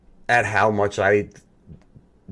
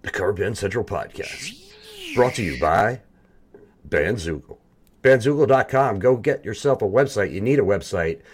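radio ad read. Acted. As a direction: sell it like a radio spot. Reads sponsor plug.

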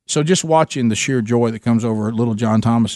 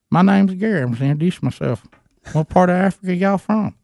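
imitating Gary, higher and eager; Gary's voice; 6 semitones higher than usual. Gary introducing himself to the visitors, higher imitated voice. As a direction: play the friendly country guy, pitched up. Gary greets the South Africans.

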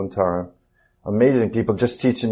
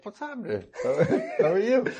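laughing greeting; 10 semitones higher, 4 dB quieter than usual. Retold or imitated. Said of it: "I was like".

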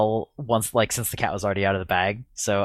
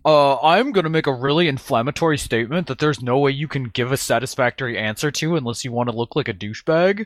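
socially awkward nerd voice; 3 semitones higher than usual. Retold or imitated. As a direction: play an awkward know-it-all nerd. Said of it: "Spirit loves my socially awkward nerd voice".

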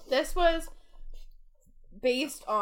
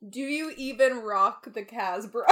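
shout; 4 dB louder than usual. Acted. Shouted song reference.

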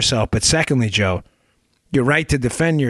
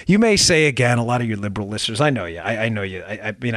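ordinary talk, nothing marked

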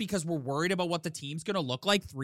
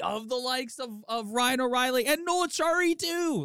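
higher-pitched rallying pitch, acted out; imagined team boss; 4 semitones higher than usual. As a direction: make an emphatic case as the boss. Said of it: "he's sitting there going like".

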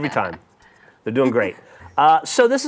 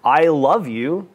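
sincere I love you; much slower than usual. Acted. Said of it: "It was better".

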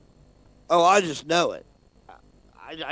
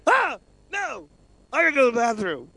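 high-pitched mock-frightened cry, laughing along; mock panic; 7 semitones higher than usual. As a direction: imitate a scared yelp, pitched way up. Retelling coworker fleeing a scare video.

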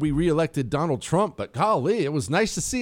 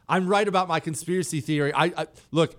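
usual speaking voice

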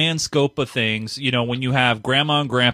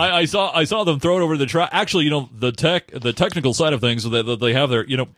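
radio voice. Acted. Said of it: "doing that voice the whole time".

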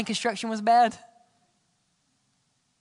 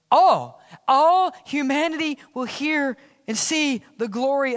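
proclaimed; 4 semitones higher than usual. Acted. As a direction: ring it out to the whole room. Answering his own question, proclaiming.

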